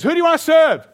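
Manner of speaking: loud, high shout to the crowd; rally the people with a big shout; rousing shout. Acted. Elijah calling to the whole nation, loud high shout.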